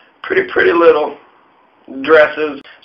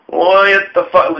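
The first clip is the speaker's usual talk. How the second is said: mock outrage; 4 semitones higher, slower than usual. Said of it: "George Washington, like".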